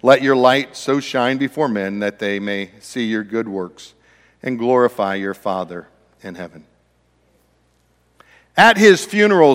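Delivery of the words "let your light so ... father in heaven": measured reading of a Bible passage; solemn scripture recitation. Acted. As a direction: read the verse with reverence. Scripture reading opening sermon.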